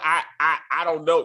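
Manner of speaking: mock stammer of a caught liar; stuttering. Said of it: "I stuttered".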